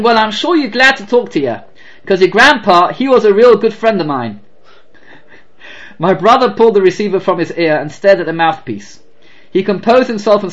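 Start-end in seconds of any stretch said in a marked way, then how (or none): 0.0-4.4 put-on southern accent. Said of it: "I do not have a good southern black accent".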